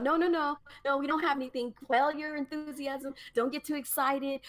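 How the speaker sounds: a hint of a company rep calming fans down; mock announcer. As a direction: placate the crowd, mockingly. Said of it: "Come on the screen talking about".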